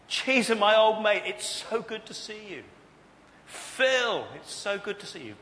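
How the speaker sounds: loud, high, hearty welcome; delighted greeting. Acted. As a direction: burst out at seeing an old mate. Jesus acted greeting his friends.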